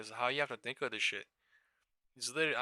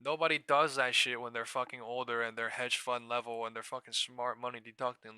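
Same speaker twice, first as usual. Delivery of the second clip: usual speaking voice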